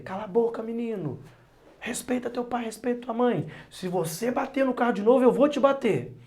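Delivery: angry scolding. Retold or imitated. Pai típico repreendendo filho no carro. (bronca de pai que vai crescendo até o grito)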